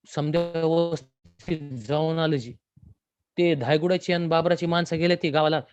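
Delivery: a hint of a deferential villager; Deva reporting.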